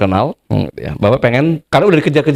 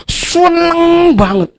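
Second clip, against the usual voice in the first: mock delight; 14 semitones higher, much slower than usual. Imagined debtor's exaggerated joy.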